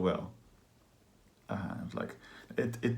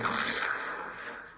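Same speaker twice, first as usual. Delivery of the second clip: voiceless rattle through the mouth; imitated clattering; 5 dB quieter than usual. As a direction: imitate a pipe clattering in the teeth. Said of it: "clattering out of your teeth".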